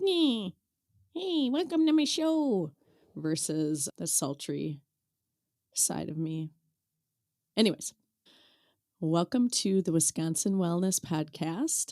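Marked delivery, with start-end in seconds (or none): 0.0-2.7 very high, nasally nerdy voice. A podcast host demonstrates how a show greeting sounds, nerdy nasal voice. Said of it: "I sound more nerdy".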